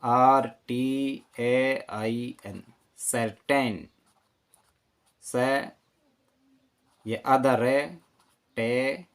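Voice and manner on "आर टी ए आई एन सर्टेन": slow letters, then सर्टेन said whole; spelling then word. Shown as a demonstration. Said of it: "सही spelling".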